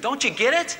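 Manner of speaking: loud, high exasperated shout; frustrated yell. Retold or imitated. Pastor yelling at his wife in frustration. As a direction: hail it at her, frustrated. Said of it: "I'm just going".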